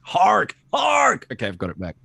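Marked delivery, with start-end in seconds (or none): 0.0-0.6 put-on a sudden call pitched far higher, like an old herald. Calling out in a character voice. 0.7-1.3 a second call pitched even higher, falling at the end. Acted. Calling out again, even higher.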